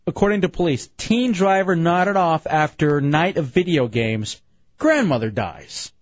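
slow, deliberate headline read; news read. Acted. Host reads a police story on air, news read. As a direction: read it out like a grim radio headline.

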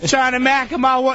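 high, shouted mock redneck threat; hammed-up confrontational redneck yell; angry redneck. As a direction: imitate a redneck picking a bar fight. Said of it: "This big fat redneck dude runs over and goes".

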